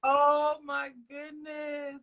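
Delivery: slow, drawn-out oh my goodness; amazed. Real, not acted. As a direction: stretch it out in awe. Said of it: "moved by the story".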